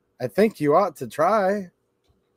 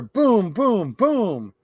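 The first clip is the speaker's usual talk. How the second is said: thunder booms; 4 semitones higher, much slower than usual. Acted. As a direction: boom out like thunder. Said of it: "Mister Brown makes thunder".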